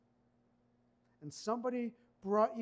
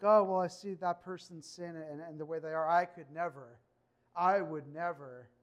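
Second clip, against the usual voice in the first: arrogant; 6 dB louder than usual. Retold or imitated. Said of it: "reeks of arrogance".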